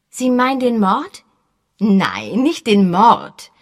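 mildly sullen answer. A narrator's reading. Josie answering Sir Henry, mildly sullen. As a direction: grumble it a little. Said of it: "mürrisch antwortete Josie".

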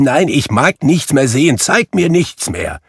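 put-on high, loud desperate old man; anguished pleading. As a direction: cry out, begging to stop. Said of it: "rief Scrooge".

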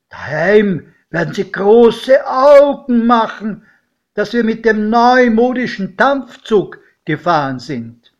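loud, high, exuberant exclamations; godfather calling out. A narrator's reading. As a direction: call out to the boy over the train, thrilled. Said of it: "Mein Pate rief". (laut und begeistert gerufen)

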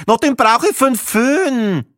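high, loud, slow brusque snap; gruff retort. Acted. Viennese woman rebuffs the narrator, gruff loud retort. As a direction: throw it back curtly.

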